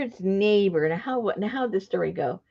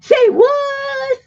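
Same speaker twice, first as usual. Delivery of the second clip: a high, loud squeal of disbelief; shocked disbelief; 8 dB louder than usual. Real, not acted. Told the phrase is Scottish not Irish, a high startled shout. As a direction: blurt it out, caught completely off guard.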